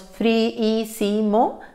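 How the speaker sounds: friísimo slowly broken into syllables; friísimo spoken in pieces; syllables split. Shown as a demonstration. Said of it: "la separaríamos".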